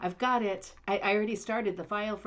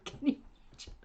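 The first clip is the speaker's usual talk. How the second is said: laughing whisper; 3 dB quieter, much faster than usual. Real, not acted.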